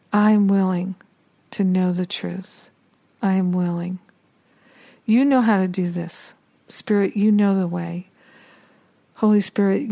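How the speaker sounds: measured, level prayer with long pauses; spoken prayer. Acted. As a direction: pray it calmly, leaving space after each short line. Leads a spoken prayer to Spirit.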